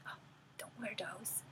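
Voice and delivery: lightly acted, hushed inner critic; gremlin voice. Gremlin warns a child off colored pants, lightly hushed. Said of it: "the gremlin voice would come up".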